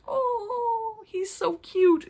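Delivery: high cooing over something cute; cooing aww. Retold or imitated. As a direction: coo it slowly like seeing a puppy. Gushing over a sweet character.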